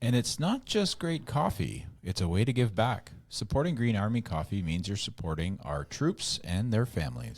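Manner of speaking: scripted co-host sponsor pitch; ad read. Acted. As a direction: pick up the pitch with a high opening, then settle.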